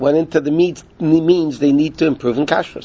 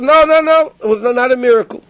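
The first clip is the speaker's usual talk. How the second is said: urgent protest; 7 semitones higher than usual. Retold or imitated. Protesting against being beaten.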